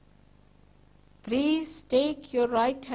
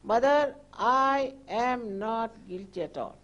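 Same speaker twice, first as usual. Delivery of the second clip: full confidence. Shown as a demonstration. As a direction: declare your innocence with sure conviction. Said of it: "say it with full confidence in yourself".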